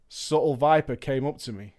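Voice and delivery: usual speaking voice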